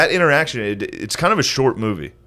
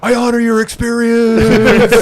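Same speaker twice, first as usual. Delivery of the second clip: high, slow mock-earnest voice; 1 mock solemn; 10 semitones higher, 5 dB louder, slower than usual. Podcast host mocking a movie line, high slow mock earnest. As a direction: lay the sincerity on thick, slowly.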